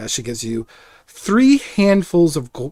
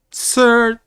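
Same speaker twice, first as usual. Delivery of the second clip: higher, slow courteous ask; polite aunt; 8 semitones higher than usual. Acted. Aunt politely asking the large guest to sit. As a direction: ask the big man sweetly to sit. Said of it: "aunt addressing big guest".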